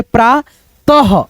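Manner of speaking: प्रातः slowly, as प्रा, then तह; प्रातः drawn out with an h ending; visarga as h. Shown as a demonstration. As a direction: split प्रातः and sound the final ह. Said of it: "वहां पे ह पढ़ देना".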